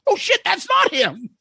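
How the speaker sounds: high sudden mock cry on not; mock surprise. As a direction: yelp it as if caught off guard. Mistaking a lookalike.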